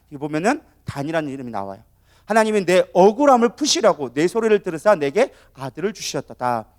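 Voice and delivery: ordinary talk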